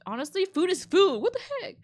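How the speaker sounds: high, loud, exasperated outburst; outraged. Real, not acted. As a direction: blurt it out in disbelief. Outraged reaction to rude guests.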